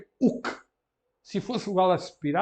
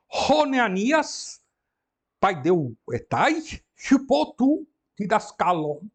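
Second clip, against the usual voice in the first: slow read; 4 semitones higher, slower than usual. Shown as a demonstration. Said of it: "teacher reads Greek example slowly".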